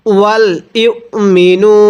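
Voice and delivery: ওয়াল ইউমিনু slowly with the hamza held; hamza kept. Shown as a demonstration. Teacher corrects a common mistake, slow. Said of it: "এই ওয়াওটিকে বাদ দিব".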